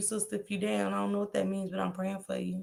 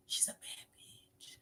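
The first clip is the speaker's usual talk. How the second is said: slow unvoiced whisper; 21 dB quieter, slower than usual. Real, not acted. Praising a fellow creator to the chat, slow whisper. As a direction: hush it like a secret compliment.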